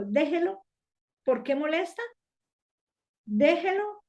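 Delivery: high, rising plea to let him be; the Lord speaking. Retold or imitated. The Lord tells her to leave the pastor alone, high and rising. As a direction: insist gently but high, the second time stronger. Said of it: "el Señor me habló y me dijo".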